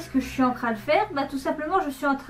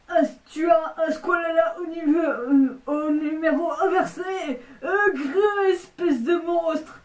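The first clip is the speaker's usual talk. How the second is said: crying strained voice; 2 semitones higher than usual. Acted. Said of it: "je vais faire toutes les voix".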